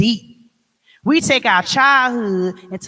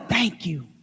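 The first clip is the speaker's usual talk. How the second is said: prayerful thanks; 2 semitones lower, 4 dB quieter, slower than usual. Retold or imitated. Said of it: "I tell 'em".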